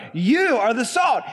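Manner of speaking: slow, emphatic "you" in a declaration; "you" stretched out for emphasis; stress on YOU. Retold or imitated. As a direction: lean hard on "you", slowing down. Preacher voicing Jesus with emphasis.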